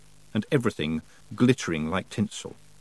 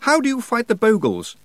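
panting; 13 semitones higher, 5 dB louder than usual. Acted. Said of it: "he panted".

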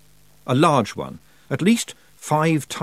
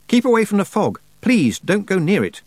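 high, louder warning cry; urgent shout; 9 semitones higher, 5 dB louder than usual. A narrator's reading. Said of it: "Tiffany shouted".

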